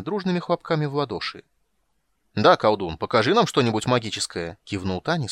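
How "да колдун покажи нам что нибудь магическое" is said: louder call over the crowd; shouting over noise. Acted. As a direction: push over the din. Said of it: "с трудом перекрикивая шум".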